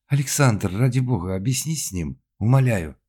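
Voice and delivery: forced, loud stage plea; pleading for her husband, pushed hard; strained pleading line. Acted. Actress forcing her line at rehearsal, strained loud plea. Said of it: "вымученно подала свою реплику".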